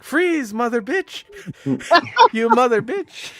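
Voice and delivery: put-on high, loud accented yell; hammed-up shopkeeper shouting freeze; mock shouted threat. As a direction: bark it like a panicked shopkeeper aiming a gun. Retold shop owner pulling gun.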